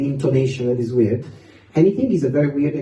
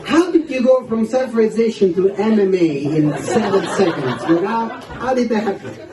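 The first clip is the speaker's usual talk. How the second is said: higher-pitched mock disbelief with laughter; lightly acted astonished questioning; incredulous father; 5 semitones higher than usual. Dad reacting to his son's sudden violence, comically incredulous.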